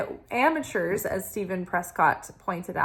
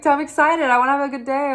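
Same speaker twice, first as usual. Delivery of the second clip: mock excitement; 6 semitones higher, 7 dB louder, faster than usual. Voicing excited inner self.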